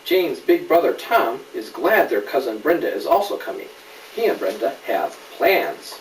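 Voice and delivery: clear, lively storybook reading; gentle picture-book narration; reading to a child. A narrator's reading. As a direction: read it to a little one, naming each friend. Reads picture book aloud.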